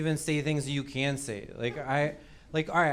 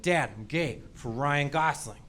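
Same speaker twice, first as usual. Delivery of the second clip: slow, measured admission to dad; understated, deliberate coming-out; mock-sober confession; 2 semitones lower, 4 dB quieter, slower than usual. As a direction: confess it to dad slowly, in all mock seriousness. Second imagined confession to dad.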